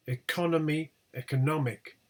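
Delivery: ECONOMY on CON, ECONOMIC on NOM; stress shift. Shown as a demonstration. Teacher showing attracted stress, shift to NOM. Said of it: "They attract the stress".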